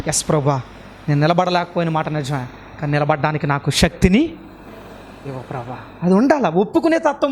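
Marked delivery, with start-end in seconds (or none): 0.1-5.8 low-pitched, humble confession, lightly acted; honest man's prayer. Honest believer admitting failure to God, lightly acted prayer. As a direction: pray it low, dropping away softly at the end. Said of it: "ఒక యథార్థపరుడు ప్రార్థన చేస్తాడు".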